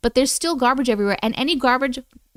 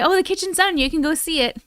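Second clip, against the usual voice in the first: higher-pitched, airy quote of the contractor; mock breezy reassurance; 5 semitones higher than usual. Streamer quoting contractor on the kitchen, mock breezy. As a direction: mimic someone casually claiming it's done. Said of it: "And then today".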